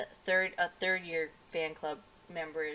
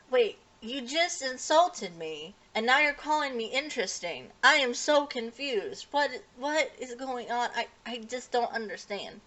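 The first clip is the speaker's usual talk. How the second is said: confused; 6 semitones higher, 5 dB louder than usual. Retold or imitated. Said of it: "he's a very confused boy".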